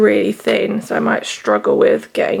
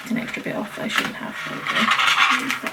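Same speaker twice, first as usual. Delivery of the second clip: holding breath; 4 dB quieter than usual. Real, not acted. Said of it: "I'm literally holding my breath".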